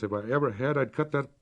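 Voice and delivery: stern sister ordering Amy to prayer, cold. Acted. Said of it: "said the cold voice".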